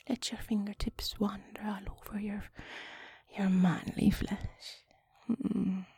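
slow, half-whispered seductive guidance; put-on sexy talk. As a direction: coax intimately, lingering with pauses.

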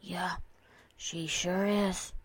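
soft, slow murmur to himself; private thought. Acted. Colt gazing at his closest friend, inwardly admiring. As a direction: think it aloud, hushed and drawn out. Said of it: "he thought".

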